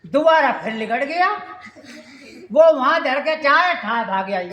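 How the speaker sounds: chuckling through the telling; laughing. Real, not acted. Narrator laughing while recounting the daughter-in-law's mishap. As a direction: laughs as she tells it.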